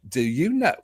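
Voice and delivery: hammed-up British actor impression, rising on the question; Michael Caine. Shown as a demonstration. Co-host quizzes the guest as British actor, Michael Caine impression. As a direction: imitate a famous British actor, pausing after the phrase. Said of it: "I can do a Michael Caine impression".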